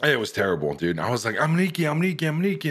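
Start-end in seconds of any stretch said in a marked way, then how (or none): 1.4-2.7 quick repeated plea, pitched up; mock panicked insisting; retold frantic plea. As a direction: imitate yourself pleading, voice raised in pitch. Acting out panicked surrender at gunpoint.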